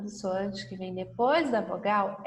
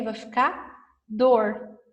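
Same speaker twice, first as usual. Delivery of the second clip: slow and clear; 3 dB louder, much slower than usual. Shown as a demonstration. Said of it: "Se eu colocar o R".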